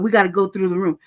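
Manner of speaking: mock guard voice, lightly done; mimicking the guard. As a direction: parrot the guard's line flatly. Quoting guard, then mocking it.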